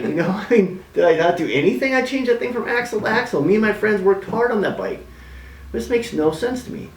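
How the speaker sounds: squeaky disbelief at the injustice; outraged, voice jumping way up; indignant outburst. Retold or imitated. Retelling his outrage at the judge.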